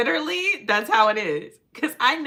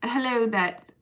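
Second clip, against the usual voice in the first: put-on proper English accent; 2 semitones higher than usual. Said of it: "That's a proper English accent".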